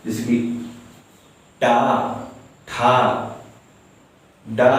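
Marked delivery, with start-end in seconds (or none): 1.6-4.7 टा ठा डा said with the tongue curled back; demonstrated retroflex sounds. Shown as a demonstration. Teacher demonstrating retroflex sounds for students. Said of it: "ये सब के उच्चारण करने से".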